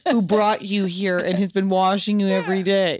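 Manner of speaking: a hint of the exasperated daughter; frustrated daughter. Son as frustrated child pleading with dying mom, laughing. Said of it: "the daughter started getting frustrated".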